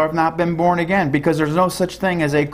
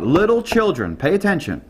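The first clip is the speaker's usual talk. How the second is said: teacher voice; 4 semitones higher than usual. Retold or imitated. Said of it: "the master teacher's in for the day".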